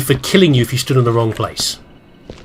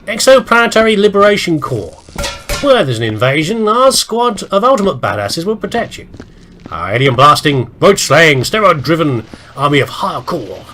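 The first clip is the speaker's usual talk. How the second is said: hammy promo voice for a space army; punchy, proclaiming squad announcement; announcer-style blurb read; 4 semitones higher than usual. Pretend. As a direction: read it out like a recruitment ad. Reads out squad's recruitment blurb.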